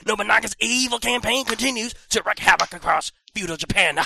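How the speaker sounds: dramatic trailer voice read; trailer narration. Acted. Reading box blurb trailer style.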